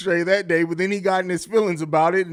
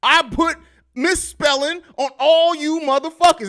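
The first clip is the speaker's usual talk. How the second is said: mock villain gloating; 9 semitones higher, 5 dB louder than usual. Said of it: "Like, it's just".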